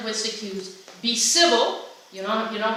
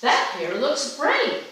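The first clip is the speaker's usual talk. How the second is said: slow, higher and rising on "great"; drawn-out admiring compliment; 5 semitones higher, 3 dB louder, much slower than usual. Shown as a demonstration. Speaker demonstrating tone of voice, slow admiring compliment. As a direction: stretch "That hair looks great." up high and slow, admiring. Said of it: "I'm gonna use the same words, but I'm gonna say two different things".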